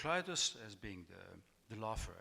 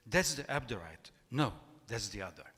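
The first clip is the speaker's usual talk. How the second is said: louder, punchy reading of the quote; quoted voice, emphatic; 6 dB louder than usual. Acted. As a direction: announce it like the voice in the novel, with a bit of punch. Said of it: "this is the quote, this voice says".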